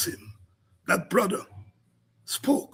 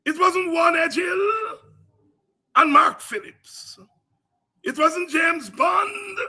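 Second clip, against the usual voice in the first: preaching at full force; 5 semitones higher, 3 dB louder, slower than usual. Acted. Host rails against the state to his audience, preaching at full force. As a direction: preach it like a fiery sermon with big swells. Fiery political sermon on air.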